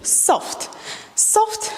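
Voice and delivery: hushed cue, second soft rising high. Shown as a demonstration. Dance teacher cueing a soft move, hushed. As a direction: breathe out soft, soft. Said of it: "soft movement".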